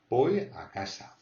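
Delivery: put-on Voy said as "boy". Shown as a demonstration. Teacher giving learners a fallback, Voy with a B. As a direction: start Voy with a clear B. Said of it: "tu fais un B".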